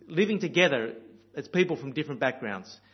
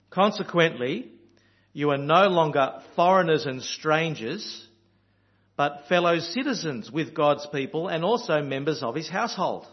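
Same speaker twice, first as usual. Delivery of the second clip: lifted, measured Bible reading; scripture reading; 4 dB louder than usual. Acted. Preacher reading the verse to his congregation, measured and lifted. Reads verse nineteen aloud.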